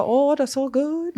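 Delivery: high, slow mock Asian accent. Joking about drivers in Japan, mock Asian accent. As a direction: put on a caricatured Asian accent, drawn out and high. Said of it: "do the Asian accent".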